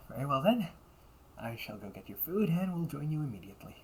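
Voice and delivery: bright, sweet customer-service voice; the perfect polite maid serving a guest; polite cafe maid. Acted.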